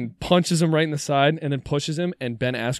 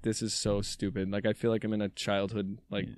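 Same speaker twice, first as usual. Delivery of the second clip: fed-up Ben; 4 semitones lower, 6 dB quieter than usual. Retold or imitated. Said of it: "Ben's like".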